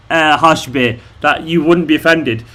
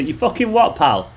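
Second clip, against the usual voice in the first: very British; 3 dB quieter than usual. Shown as a demonstration. Showing viewers the most British phrase, mock confrontational. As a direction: play up the British challenge. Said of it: "that's the most British thing you say".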